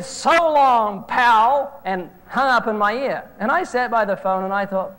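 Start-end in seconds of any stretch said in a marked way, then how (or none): 0.0-1.8 louder, a dismissive caller hanging up; a mild hammed-up goodbye before slamming down; annoyed caller hanging up on the preacher, in a curt brush-off. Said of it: "how he responded to that".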